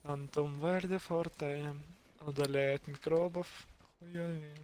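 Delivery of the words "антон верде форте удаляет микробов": ad voice. Pretend. Parodies an ad slogan.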